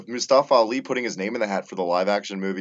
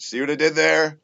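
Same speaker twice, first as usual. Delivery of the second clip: higher, proud of the pun; pleased with pun; 8 semitones higher, 3 dB louder than usual. Real, not acted. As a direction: show off the joke. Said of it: "just like the actual Cruiserweight".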